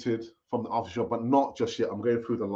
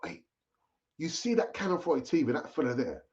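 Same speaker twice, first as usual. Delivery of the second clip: imagined cousin; 5 semitones higher than usual. Retold or imitated. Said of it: "And he might say to you".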